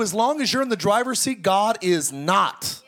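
emphatic shout. Acted. Preacher drives home point.

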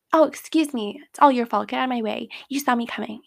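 mock-rude telling-off; mock indignation. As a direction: lightly act out blaming someone who bumped you. Acted rude reply after bumping someone.

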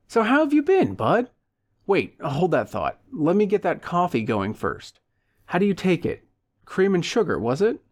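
high, excited greeting; over-friendly old pal Leo. Acted. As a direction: greet a long-lost buddy with eager surprise.

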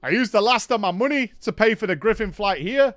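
hammed-up excuse; imitating Raven. Raven explaining he spent his last gold, mock voice.

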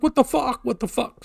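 retold disbelief.

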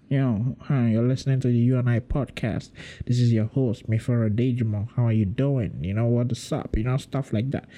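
a light put-on American accent, podcast-host style; a mild American accent showing off how easy it is; American accent demo. Shown as a demonstration. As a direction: do your best American radio-host voice, lightly nasal. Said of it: "American accent that showed".

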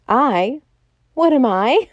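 the president roaring at the detectives. A narrator's reading. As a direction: roar the question back at them. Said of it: "roared the president".

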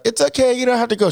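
high, soothing voice in imitation; calm nurse. Husband mimics nurse reassuring labouring wife, high and calm. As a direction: reassure sweetly in a put-on high pitch. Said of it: "she's so calm that it's like".

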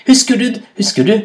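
high-pitched taunting call. A narrator's reading. Rabbit taunting hyena from the cave, calling out. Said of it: "ropte Kanin".

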